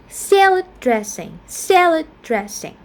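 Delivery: "salad dressing" stressed on SAL of "salad". Shown as a demonstration. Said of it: "stress on the first syllable".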